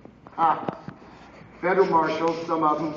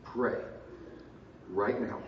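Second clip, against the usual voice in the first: low, softened aside; hushed courtroom aside; discreet urging; 6 semitones lower, 10 dB quieter than usual. Retold or imitated. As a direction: quietly urge someone to pray. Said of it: "and I went like this".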